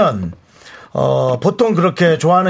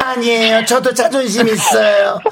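put-on old actor tone; 4 semitones higher than usual. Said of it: "옛날 배우 말투네".

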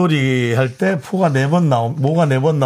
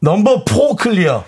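crew call-out; 4 semitones higher, slower than usual. Shown as a demonstration. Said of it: "다시 한 번 해주세요".

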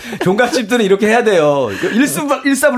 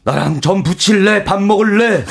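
lightly imitated brooding drama ultimatum; mock-intense romantic threat; So Ji-sub impression. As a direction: press each question harder, like a drama hero. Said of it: "아, 소지섭 씨".

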